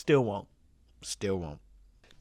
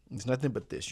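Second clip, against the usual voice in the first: whispered, breathy under the breath; 5 dB quieter than usual. Shown as a demonstration. Repeating the video's hype to the audience in a whisper. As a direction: hush it like a secret. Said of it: "whispered repeat".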